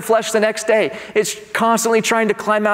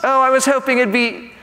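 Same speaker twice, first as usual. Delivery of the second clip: put-on British disappointment; lightly pitched-up, mock-British complaint; British accent; 3 semitones higher than usual. Disappointed believer answering the Lord, in a British accent. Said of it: "going into that British mode".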